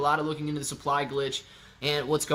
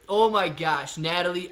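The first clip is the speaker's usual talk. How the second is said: excited greeting; 2 semitones higher than usual. Real, not acted. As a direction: greet her with open delight. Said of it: "formally show my excitement".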